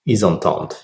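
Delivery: "Ils entendent" with the S sounded as a Z into "entendent"; linking S sounded. Shown as a demonstration. Teacher showing students the Z liaison in "Ils entendent". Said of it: "Il faut prononcer le S".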